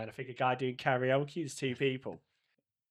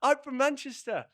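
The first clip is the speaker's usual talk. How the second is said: high, raised voice, mock-proud; loud insistent announcement; 10 semitones higher, 4 dB louder than usual. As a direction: call it out to someone who isn't understanding. Retold shouting across language barrier.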